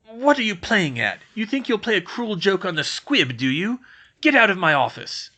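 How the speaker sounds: loud bitter caretaker, shouting; angry Filch. Acted. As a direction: throw them out in a rage.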